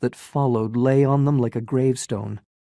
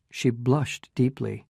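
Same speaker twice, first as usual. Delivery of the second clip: plain reading voice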